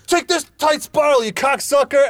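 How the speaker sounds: high, hammed-up action hero. Hero's action-movie line.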